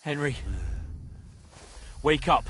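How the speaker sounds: loud urgent call. Acted. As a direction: call him back awake. Trying to rouse him.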